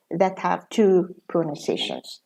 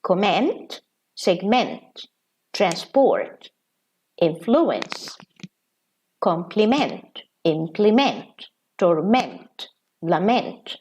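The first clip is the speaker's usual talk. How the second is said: comment, segment, transport, influence, complement, implement, torment, lament each stressed at the end; stress on the last syllable; slower than usual. Shown as a demonstration. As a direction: lean on the final syllable of each verb. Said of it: "with stress on the last syllable".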